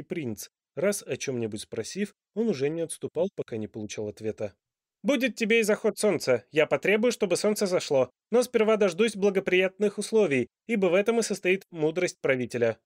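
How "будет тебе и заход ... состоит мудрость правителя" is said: loud, high royal argument; a monarch proving his point grandly; lecturing king. A narrator's reading. King's voice.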